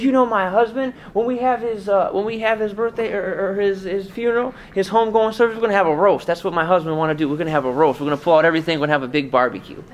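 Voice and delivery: high, lively widow voice; the widow's voice. Retold or imitated. Widow explaining her husband wanted a roast, high and cheerful. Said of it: "She goes".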